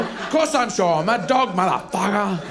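lightly voiced cocksure dog; indignant dog. Dog answers its doubting owner.

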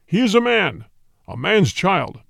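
lightly voiced tiger, menacing; roaring tiger. A narrator's reading. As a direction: growl it out as a proud tiger. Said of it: "Then Shere Khan roared".

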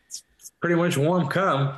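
whispered crude punchline. Pretend. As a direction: drop to a breathy whisper. Whispered joke.

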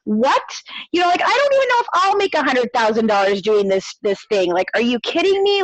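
incredulous retort, acted out; retold incredulity. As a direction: push back as if you can't believe the demand. Retold reply to outrageous money demand.

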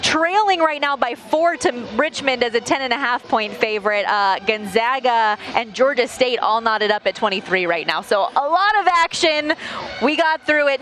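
breathless after a fast rundown; winded, gasping between phrases; out of breath. Real, not acted. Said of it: "I'm out of breath now".

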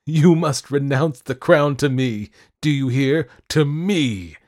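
high, very loud demand; fierce, full-voiced ultimatum; imperious shout. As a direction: command like a raving monarch. Madman demands the crown.

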